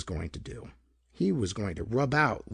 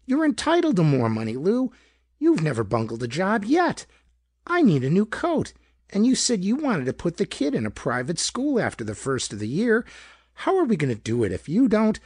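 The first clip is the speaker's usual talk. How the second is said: much higher, louder nagging complaint; querulous wife; 8 semitones higher, 4 dB louder than usual. A narrator's reading. Wife berates husband for being too easygoing, querulous. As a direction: rise into a shrill scolding pitch. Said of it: "querulous pitch".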